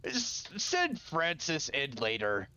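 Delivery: a light careless brute apology; Merc's voice. Acted. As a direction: shrug it off like a big warrior. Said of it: "looks and goes".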